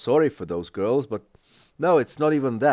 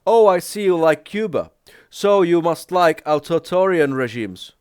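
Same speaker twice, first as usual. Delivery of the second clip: higher, louder imitation of an accuser; mock accusation; 5 semitones higher, 4 dB louder than usual. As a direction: voice a critic jumping to conclusions, pitched up. Voicing an accuser's loaded assumption.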